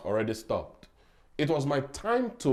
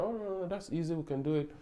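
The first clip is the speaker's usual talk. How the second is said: higher, softer quote of someone saying it's easy; breezy reassurance; 6 semitones higher, 5 dB quieter, faster than usual. Retold or imitated. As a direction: brush it off lightly, pitched up. Quoting a manager's easy dismissal.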